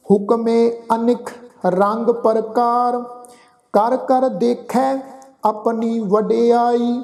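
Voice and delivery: slow recitation with long held final syllables; measured level-toned sacred reading; scripture recitation. Acted. Teacher recites Gurbani to the congregation, slow scripture recitation.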